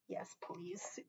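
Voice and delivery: soft breathy whisper; whispered yes please. Real, not acted. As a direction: whisper it close to the mic. Whispered after a kiss.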